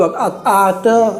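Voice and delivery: slow, halting imitation of garbled child speech; imitated lisping child. Teacher showing how a lisping child talks, imitated halting speech. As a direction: stretch the sounds like a child struggling to talk. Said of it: "मतलब कुछ अजीब type में बोलता है तोतला".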